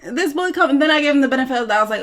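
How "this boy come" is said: very high squeaky disbelief; incredulous mock outburst. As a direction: squeal it at your clueless friend. Mock outburst at friend's obliviousness.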